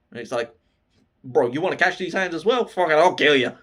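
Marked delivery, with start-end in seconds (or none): 1.2-3.6 quick, louder cocky challenge; a touch of hot-headed menace, acted out; mock threat. Demon fighter threatens the demon boss, mock threat. Akaza threatens Muzan, retold.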